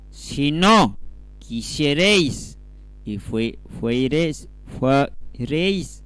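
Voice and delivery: slow, halting read-aloud, word by word; deliberate, emphatic Bible reading; scripture reading. Acted. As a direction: read the verse out with weighty pauses. Reads the verse out slowly.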